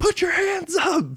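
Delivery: put-on very high, drawn-out yell. Retelling how Vegeta rallies the people: imitating Vegeta yelling. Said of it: "yelling at people".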